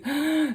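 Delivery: sharp high gasp of delight; quick excited intake of breath. Real, not acted. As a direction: gasp like you just saw something adorable. Delighted at seeing the earrings.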